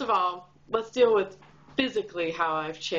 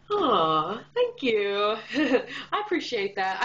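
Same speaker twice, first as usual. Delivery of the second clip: touched thanks. Real, not acted. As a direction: melt at a sweet compliment. Touched by friend's compliment.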